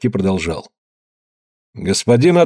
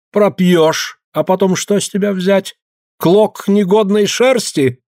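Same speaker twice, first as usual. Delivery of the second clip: lightly voiced pompous official, mildly higher; a hint of a sneering landowner's agent; haughty official; 8 semitones higher than usual. A narrator's reading. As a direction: lecture them with contempt from above. Official lecturing the peasants.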